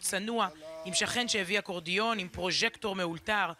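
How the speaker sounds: measured, restrained news-feature narration; documentary voice-over. Acted. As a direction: narrate a solemn memorial report, evenly. Recorded report narration voice-over.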